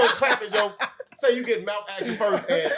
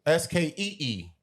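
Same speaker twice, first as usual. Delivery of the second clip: slow spelling out. Shown as a demonstration. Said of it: "So spell skeezer".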